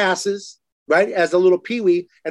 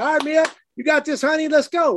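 higher-pitched mock cheer from the stands; cheering dad; 9 semitones higher than usual. Dad retelling how he cheered his daughter on, mock excited cheer. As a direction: pump your daughter up from the bleachers. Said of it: "So I said".

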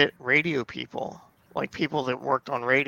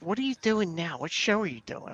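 higher, puzzled wife voice; imitating his wife; 5 semitones higher, 5 dB quieter than usual. Husband mimicking his wife's questions, higher and puzzled. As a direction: ask it like his confused wife.

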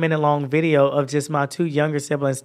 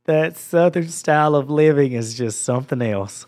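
Georgia accent. Real, not acted. Slips into home Georgia accent.

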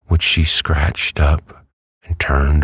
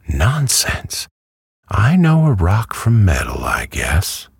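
higher-pitched indignant hen; 7 semitones higher than usual. A narrator's reading. Hen contradicts Dorothy about the rock, mildly indignant. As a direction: dismiss it with mild huffiness.

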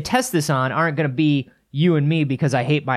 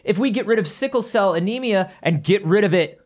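higher, lightly voiced mock alarm; mock panic; 6 semitones higher than usual. Mocking people scared of gene editing, higher mock panic. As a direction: parody the fearful public's overreaction. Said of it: "these sort of fears come from this innate".

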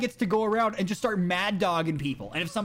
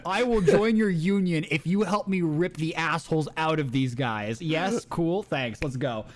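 laughing; 3 semitones lower, slower than usual. Retold or imitated. Jake voiced, laughing through deal.

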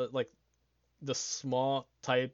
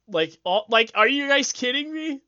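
high, loud amazed outcry; thrilled shout at the download count; excited disbelief; 10 semitones higher, 11 dB louder than usual. Real, not acted. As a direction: shout it like you can't believe the numbers.

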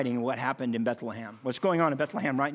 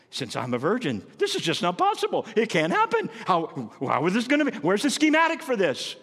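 bewildered disbelief; 4 semitones higher than usual. Pretend. Mary bewildered by the news.

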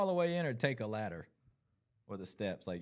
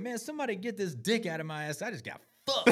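mock kid complaining; 9 semitones higher than usual. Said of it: "this one boy said".

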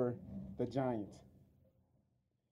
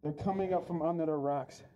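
muffled through a hot mask; talking inside a sweaty mask; inside a rubber mask. Real, not acted. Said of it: "it's hot in this mask".

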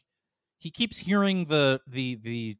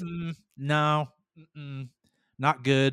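Zathras voice; much slower than usual. Retold or imitated. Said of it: "he talks like Triumph".

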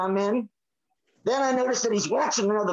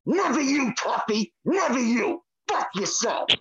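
angry rant; 2 semitones higher than usual. Real, not acted. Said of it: "he's going off today".

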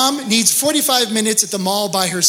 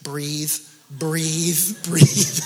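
soothing breathe; 3 semitones lower, much slower than usual. Retold or imitated. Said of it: "Carolyn is patting me on my knee going".

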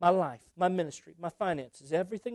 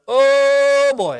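loud, high startled cry; startled oh boy; 7 semitones higher, 13 dB louder than usual. Retold or imitated. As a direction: blurt it out like pirates caught off guard. Pirates see the French Navy.

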